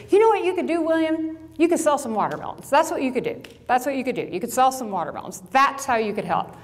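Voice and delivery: mock-sweet sarcasm, voice up high; snapping sarcastically at a teenager; sarcastic. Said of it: "A little sarcastic".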